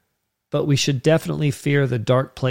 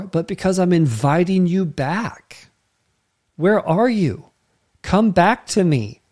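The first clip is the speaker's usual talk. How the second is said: higher pleading father voice; aching father; 5 semitones higher than usual. Retold or imitated. God as father calling his hiding children back, higher pleading. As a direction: plead with the lost kids to come home. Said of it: "an ache ... in the heart of dad that says".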